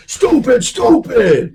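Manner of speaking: loud, high yell at yourself; mock self-scolding. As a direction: berate yourself in exaggerated frustration. Acting self-scolding while driving home.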